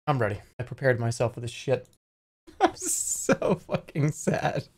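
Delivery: low deflated mumble; quiet dejected. Real, not acted. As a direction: say it quietly, beaten. Deflated after being baited.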